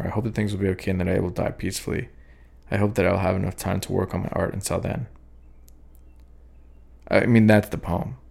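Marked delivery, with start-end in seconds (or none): 0.0-5.1 quick rereading. Shown as a demonstration. Poet rereading his favourite lines, fast and offhand. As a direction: toss off the opening lines quickly. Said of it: "I kinda like the beginning more".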